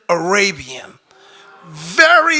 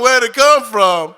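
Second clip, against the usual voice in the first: louder, teasing repeat of the question; mock echo; 6 dB louder than usual. God mocking the owner's silly question, teasing echo. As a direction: throw his own question back at him. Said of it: "Did you miss the birds and the bees".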